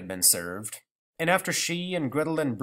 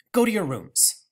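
firm order; 7 semitones higher, 4 dB louder than usual. Acted. Mother ordering.

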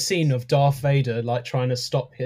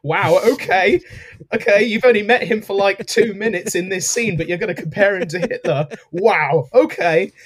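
mock exasperation; 4 semitones higher, 4 dB louder than usual.

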